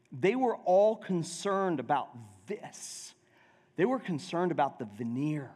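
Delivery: normal talking voice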